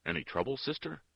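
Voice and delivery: lightly called question, lifting high at the end; calling out. A narrator's reading. Workman on the stairs checks on the nun, calling. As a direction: call it over with mild concern. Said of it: "put down his scrubbing brush and called".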